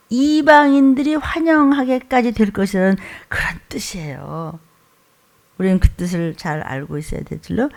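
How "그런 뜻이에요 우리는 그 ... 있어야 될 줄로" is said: whisper. Real, not acted. Sermon point dropped to whisper.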